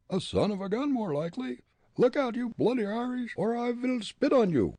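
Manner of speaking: very high jeering character; high-pitched, mocking talking head; thrown head voice. A narrator's reading. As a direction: taunt in a high ventriloquist's voice. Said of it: "in a hoarse, gurgling voice".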